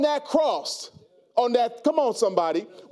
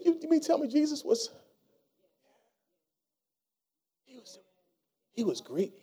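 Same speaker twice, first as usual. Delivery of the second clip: disbelieving question; 6 dB quieter than usual. Retold or imitated. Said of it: "You said, you said".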